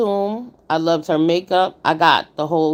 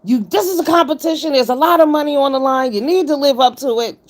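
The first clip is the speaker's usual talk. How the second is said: imitating a stern competition judge, higher pitch; serious; 8 semitones higher, 3 dB louder than usual. Voicing a co-judge scolding contestants about the money, serious. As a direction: lay down the stakes, quoting her all serious. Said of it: "when she get all serious".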